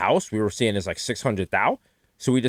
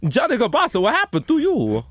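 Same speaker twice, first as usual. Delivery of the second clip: mock lament; 12 semitones higher than usual. Mock lament over friend.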